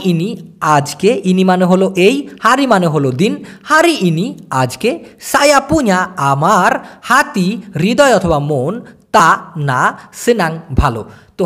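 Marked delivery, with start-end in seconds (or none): 3.6-11.1 slow breakdown. Shown as a demonstration. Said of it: "word-by-word breakdown".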